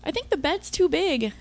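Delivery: high nervous squeak; squeaking up at her boyfriend, tied down; squeaky. Acted. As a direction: pitch way up like a startled mouse. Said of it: "I squeaked".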